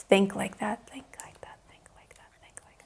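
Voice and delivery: whispered chant, fading away; whispering. Pretend. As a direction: whisper it repeatedly. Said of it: "Somebody is whispering in this room".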